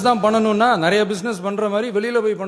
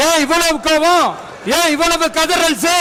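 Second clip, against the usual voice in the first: higher, raised taunt at the opposition; taunting shout; 6 semitones higher than usual. Real, not acted. Chief minister taunting the opposition benches, mocking shout.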